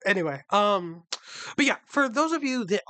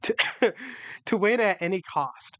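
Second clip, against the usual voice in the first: crumbly cracker in the mouth; reading with a mouthful; mouth full; 3 semitones higher than usual. Real, not acted. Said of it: "Those crackers are taking a toll on you".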